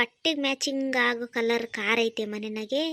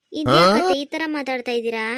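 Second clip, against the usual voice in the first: louder, stung disbelief; shocked protest; 7 dB louder than usual. Acted. Bride protesting loudly at her mother-in-law's insult. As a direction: cry out in hurt shock.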